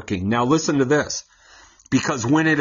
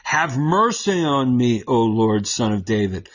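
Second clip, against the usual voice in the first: crying out. Acted. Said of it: "came out and cried".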